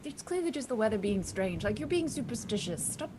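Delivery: mildly exasperated scolding; berating. Acted. Crew member telling a colleague to stop worrying, berating. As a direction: tell them off, lightly acted. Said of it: "the one who was kind of berating".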